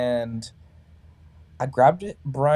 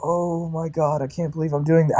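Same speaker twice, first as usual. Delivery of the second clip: reenacted overwhelmed reaction, a little higher; stunned disbelief; 3 semitones higher than usual. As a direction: marvel at yourself, stretching the first words. Own stunned reaction, set against friends.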